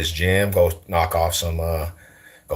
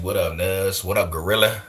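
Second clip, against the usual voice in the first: homie greetings; 3 semitones higher than usual. Retold or imitated. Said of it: "you had the nutties".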